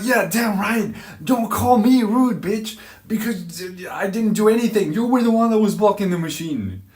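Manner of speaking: loud, high, heated tirade; acted angry yelling. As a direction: yell after her in hammed-up fury. Shouting back in acted quarrel.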